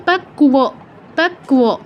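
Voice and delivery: "পাক্কুয়" as pak-kuwo; touch k, then full w in "পাক্কুয়". Shown as a demonstration. Teacher extending the rule, "পাক্কুয়" as pak-kuwo. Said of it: "যদি ও থাকতো".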